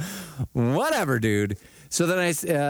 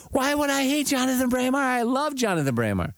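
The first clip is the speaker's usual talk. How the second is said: higher, playfully offended disbelief; imitating an innocent protest, pitched up; mock indignant surprise; 10 semitones higher than usual. Retelling Kenny K's indignant denial.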